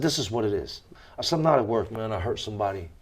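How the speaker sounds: low, soft quoted admission to a son; subdued confession. Retold or imitated. Father admits prison to his young son, subdued confession.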